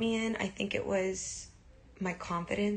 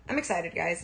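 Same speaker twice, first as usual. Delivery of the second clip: ordinary delivery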